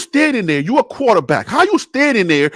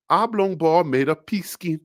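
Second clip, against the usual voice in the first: deep announcer voice; 5 semitones lower, 9 dB quieter than usual. Pretend.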